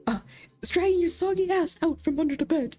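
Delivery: a smug plushie gadget bragging to a rival toy; chipper robot toy. Acted. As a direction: pitch it up like a proud little toy. GM voices Plushie Pet.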